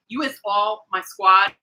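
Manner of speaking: slow, slangy "You is all my squad"; teasing "You is all my squad"; playful bad grammar. Shown as a demonstration. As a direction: drawl "You is" like street slang on purpose. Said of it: "With all my bad grammar".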